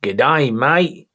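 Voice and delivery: put-on New Zealand accent with swooping pitch; playful mock New Zealand accent. Shown as a demonstration. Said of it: "do your New Zealand accent".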